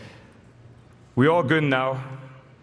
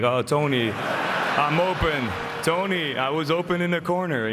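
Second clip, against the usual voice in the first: mock a teammate begging for the ball; whiny complaining teammate; 3 semitones higher than usual. Teammate complaining to point guard, mock whiny plea. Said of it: "who will complain to get the ball".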